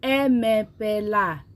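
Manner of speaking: emepela drawn out slowly, falling at the end; careful classroom Emepela; slow teaching demo. Shown as a demonstration. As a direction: model Emepela slowly for learners. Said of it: "say it with me".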